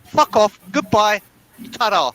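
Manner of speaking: loud, mocking brush-off; dismissive send-off. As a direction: waves them off with a loud flourish. Dismissing returning friends.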